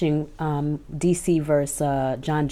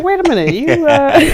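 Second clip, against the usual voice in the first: mock surprise; 11 semitones higher, 8 dB louder than usual. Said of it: "that's why I brought it up".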